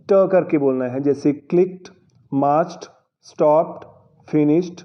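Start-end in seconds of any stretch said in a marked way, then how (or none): 2.3-4.8 मार्च्ड, स्टॉप्ड, फिनिश्ड each end in a crisp t sound. Shown as a demonstration. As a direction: model each word with a final t. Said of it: "ऐसे बोलना है आपको".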